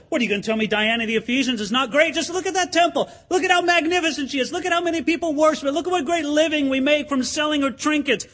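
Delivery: a citizen pointing to the temple in pride; proud crowd voice. Retold or imitated. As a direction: boast about the temple, mock pride. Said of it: "They could look over at the temple".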